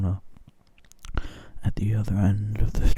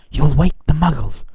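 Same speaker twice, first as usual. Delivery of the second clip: higher, louder stern warning; scolding stern witch; 7 semitones higher, 12 dB louder than usual. Acted. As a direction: snap a warning at him. Stern witch scolding sobbing giant.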